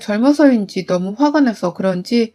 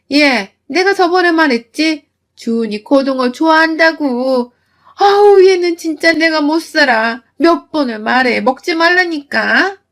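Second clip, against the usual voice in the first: nagging mother-in-law; 5 semitones higher, 4 dB louder than usual. Acted. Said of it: "라고 말하며 제 손등을 또 탁 치는 시어머니".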